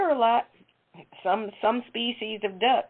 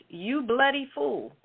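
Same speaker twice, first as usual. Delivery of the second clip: mock Australian duck; 5 semitones higher than usual. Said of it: "it had an Australian accent".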